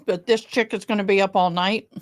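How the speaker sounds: talking while chewing food; chewing noisily. Real, not acted. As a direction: speak around a mouthful of food. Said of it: "I'm sorry I'm eating".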